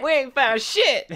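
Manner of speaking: very high, drawn-out comic shout; loud, exaggerated film impression; echoed movie quote. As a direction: parrot the line in a strained yell. Co-host echoes the Spaceballs quote.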